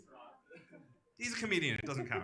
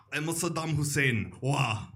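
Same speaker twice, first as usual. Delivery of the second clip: Saddam Hussein; 5 dB louder, slower than usual. Acted. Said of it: "another celebrity".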